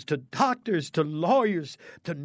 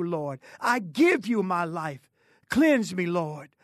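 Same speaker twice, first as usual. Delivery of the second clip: leading a prayer; 3 semitones higher than usual. Shown as a demonstration. Leads listeners in repentance prayer.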